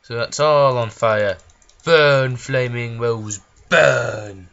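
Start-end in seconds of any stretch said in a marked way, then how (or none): 1.8-4.5 villain shout. Pretend. Villain burning the bar.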